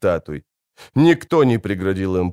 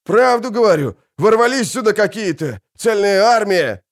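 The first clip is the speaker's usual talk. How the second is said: insistent soldier; 9 semitones higher, 4 dB louder than usual. A narrator's reading. Soldier insists on his report.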